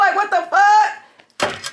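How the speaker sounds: drawn out through a laugh; amused incredulity; laughing disbelief. Retold or imitated. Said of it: "That's how I felt".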